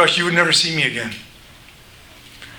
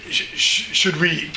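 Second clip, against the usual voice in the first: nervous servants. Acted. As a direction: fret like a scared servant. Frightened servants unsure what to do.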